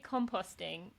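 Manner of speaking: "composting" with long O, "com-POHST-ing"; British pronunciation. Shown as a demonstration. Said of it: "So I say".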